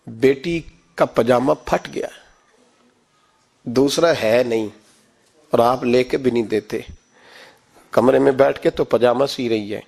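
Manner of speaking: lightly sorrowful, with long pauses; retold tearful reply. Tearful mother explains to her husband why daughter stayed away, subdued sorrow. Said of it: "تو اماں رو پڑی".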